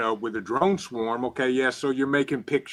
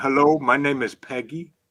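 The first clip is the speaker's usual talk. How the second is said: loud, fake Russian accent; 2 semitones higher, 5 dB louder than usual. Acting out a phone scammer introducing herself as Peggy, in a Russian accent. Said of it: "Russian accent".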